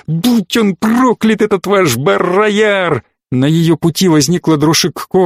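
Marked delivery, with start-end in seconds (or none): 0.1-3.0 higher, slow, bitter curse; angry curse. A narrator's reading. Cordelia storming out, cursing Barrayar slowly and higher. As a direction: fling it over the shoulder in anger. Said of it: "бросив через плечо".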